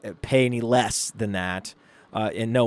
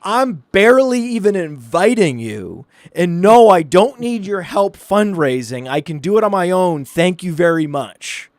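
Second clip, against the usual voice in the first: higher, emphatic, indignant telling-off; furious wife; 5 semitones higher, 4 dB louder than usual. Retold or imitated. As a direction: imitate a wife angrily putting her husband in his place. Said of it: "And she was, like, furious".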